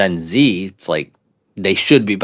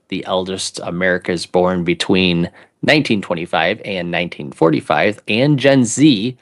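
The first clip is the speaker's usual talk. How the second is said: measured read-aloud in an announcer's delivery. Pretend. Co-host reads a housing article paragraph aloud, announcer voice. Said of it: "I'll read it with my announcer voice".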